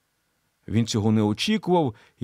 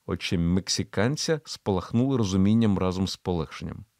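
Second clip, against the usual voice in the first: usual speaking voice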